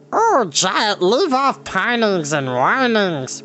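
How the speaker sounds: high, slow odd creature voice; shaggy creature chiding the giant; Gurgi creature voice. Acted. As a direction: scold gently in a creature voice.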